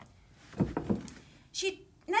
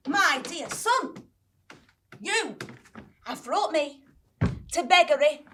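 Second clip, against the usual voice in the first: tearful mother; 5 dB louder than usual. Acted. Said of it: "with tears in her eyes and said".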